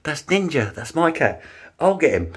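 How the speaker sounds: high repeated calling of a name; trying to get her attention. Retold or imitated. Owner calling neighbour Di repeatedly, high and insistent. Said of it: "I said".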